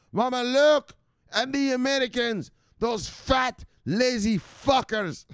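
high-pitched son pestering his mother; Michelle. Acted. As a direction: plead with mama to look. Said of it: "this is what Michelle says".

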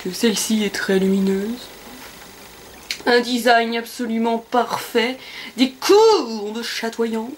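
slow, mock shopping-channel host; TV presenter voice. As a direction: play a slick sales host.

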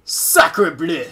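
exaggerated French chef accent. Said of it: "It's French!".

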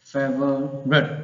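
"favorite" slowly split as FE-vo-rut; broken into syllables. Shown as a demonstration. Teacher models it for learners, "favorite" slowly split into syllables. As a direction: sound out "favorite" slowly, piece by piece. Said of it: "ออกเป็นเสียงเดียวกันเลยนะ".

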